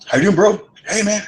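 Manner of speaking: high, eager, loud hello; the stranger at the bar, high and overeager; excited greeting. Retold or imitated. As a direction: greet him like a long-lost pal. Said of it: "he's all excited".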